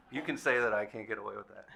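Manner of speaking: words spoken through laughter; laughing. Real, not acted. Panelist teasing the consumer advocate, laughing. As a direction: still chuckling while answering.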